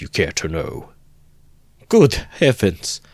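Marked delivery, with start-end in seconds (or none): 1.9-3.0 much higher, louder and slow, drawn-out dismay; shocked to the core by the news; appalled outcry; horrified cry. Acted. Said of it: "Cried Pulcheria Alexandrovna".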